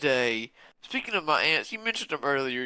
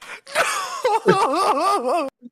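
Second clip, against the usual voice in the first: mock bawling; 6 dB louder than usual. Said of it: "Rudy has an emotional breakdown".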